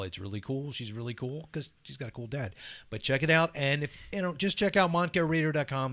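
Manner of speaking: big radio announcer read. Shown as a demonstration. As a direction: pitch it like a station promo. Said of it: "Let me put on my announcer voice".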